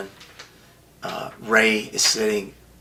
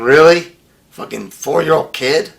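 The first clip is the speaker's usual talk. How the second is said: indignant rant; 6 semitones higher, 6 dB louder than usual. Real, not acted. Outraged at wrestler refusing.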